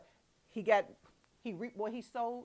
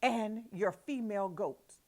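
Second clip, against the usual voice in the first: indignant Jacob; 4 dB louder than usual. Acted. Jacob protesting to Laban, indignant and louder. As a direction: plead your innocence, voice rising.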